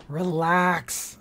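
under his breath to Helene; muttered. A narrator's reading. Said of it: "Score muttered".

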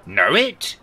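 high, loud scoff; incredulous. A narrator's reading. Rishi scoffs at the ghost's question, high and loud.

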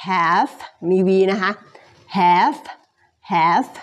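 "have" ending in a clear V; careful "have" with audible V; final V sounded. Shown as a demonstration. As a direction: finish "have" on a voiced V.

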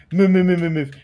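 rapid urgent commands; urgent shouting. Real, not acted. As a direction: hurry them along loudly. Urgent game order.

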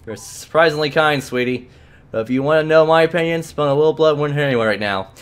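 a hint of an eager, menacing servant; bloodthirsty companion. Edna offering to bite the clerk, lightly voiced eagerness. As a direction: offer violence like a loyal pet.

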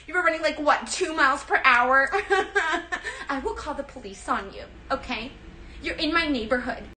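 hammed-up Karen scolding a snail; mock Karen.

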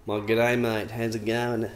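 mock Australian greeting; bad Australian accent. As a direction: put on a rough Australian accent. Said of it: "your Australian accent got worse".

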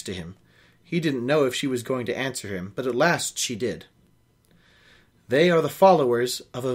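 reading a novel aloud, steady and even; story narration. A narrator's reading. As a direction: carry the listener through the scene. Reads novel aloud with character voices.

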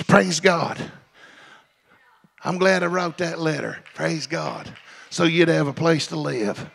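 soft, low talk to the congregation; quiet aside. Real, not acted. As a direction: drop down and chat softly. Quiet aside after climax.

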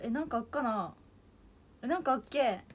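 casual Toyama dialect rendering. Shown as a demonstration. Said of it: "富山弁で言ったら".

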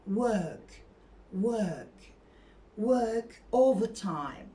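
"work" as "wök", long ö; silent r in work. Shown as a demonstration. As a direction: say "work" without any r at all. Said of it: "R sesi hiç yok".

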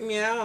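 mimicked kitty cry; imitated meow.

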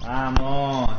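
loud short victory shout; excited cheer. Real, not acted. Player cheering a live win, loud short shout. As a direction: punch it out like a win.

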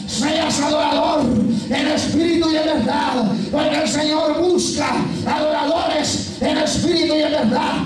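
forceful, shouted exhortation; full-force preaching. Real, not acted. Preacher urging believers to keep crying out, full-force preaching. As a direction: drive every phrase home to the congregation.

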